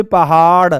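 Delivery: flick the tongue at the end of पहाड़; flapped ड़ in पहाड़. Shown as a demonstration. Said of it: "हम क्या बोलते हैं". (पहाड़ के अंत में नुक्ते वाला ड़)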